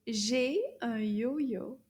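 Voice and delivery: slow, word-by-word French modelling; drawn-out words with gaps between; slow teacher model. Shown as a demonstration. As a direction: say it slowly for learners to repeat. Teacher models sentence for repeating.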